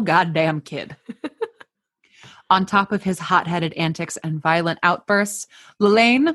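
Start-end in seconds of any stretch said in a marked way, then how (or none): 5.8-6.3 "Lelaine" said the American way, luh-LAYN; "Lelaine" anglicized, a little louder; American pronunciation. Shown as a demonstration. Host deciding on the American way to say "Lelaine". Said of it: "I'm gonna say it Lelaine because that's how we say it in America".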